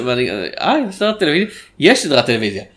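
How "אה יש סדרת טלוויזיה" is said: higher-pitched, softly voiced surprised discovery; surprised question. Recounting his googling to the co-host, surprised question. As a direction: react as if just finding this out.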